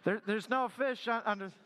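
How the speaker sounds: lightly voiced rink manager over the speakers. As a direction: deliver the punchline as the same booming voice. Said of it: "the voice came back and said".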